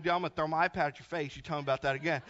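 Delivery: low, quick deadpan retort; mock threat. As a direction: drop low for a mock warning. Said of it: "I was like".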